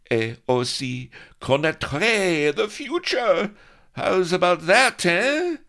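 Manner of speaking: loud, very high, slow crowing with French words; loud very high triumphant boast; gloating pirate. A narrator's reading. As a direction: crow it to the cheering crew. Pugh gloating to his crew.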